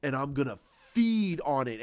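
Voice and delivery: villain taunts a frightened Rey, slow and low; smug villain. Retold or imitated. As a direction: savour each word like a predator. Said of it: "he's smiling".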